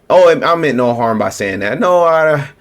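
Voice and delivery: whiny fake-innocent denial, rising on No; hammed-up "I meant no harm"; mock innocent excuse. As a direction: mimic a guilty politician playing innocent. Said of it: "When they talk like that".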